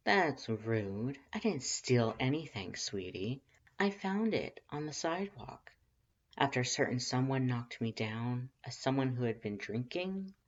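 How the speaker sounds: a hint of a flirty stranger; lilting playful voice. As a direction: tease him lightly.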